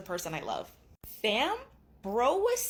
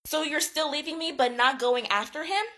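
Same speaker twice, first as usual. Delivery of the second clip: higher, louder outraged protest; mock losing it; 6 semitones higher, 5 dB louder than usual. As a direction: act out an indignant wife, pitch climbing. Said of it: "Girl loses her shit".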